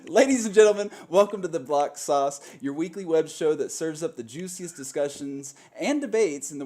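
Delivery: game-show host opening; show host intro. Acted. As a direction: announce it like a TV host.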